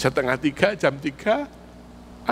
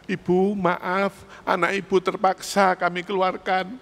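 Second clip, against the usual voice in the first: headmaster. Pretend. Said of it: "Sampean dipanggil kepala sekolah".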